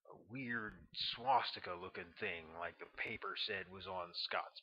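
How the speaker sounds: ex-Green Beret spinning a conspiratorial tale; lightly voiced, secretive storyteller; Tonawanda's voice. Tonawanda continues his tale.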